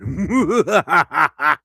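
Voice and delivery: loud evil cackle; villain laugh. Pretend. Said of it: "Where the hell's my villain laugh?".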